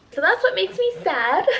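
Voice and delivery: high, bright laugh through the words; sheepish laugh after crying; laughing off sadness. Real, not acted. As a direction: shake off the tears with a laugh. Laughing after emotional confession.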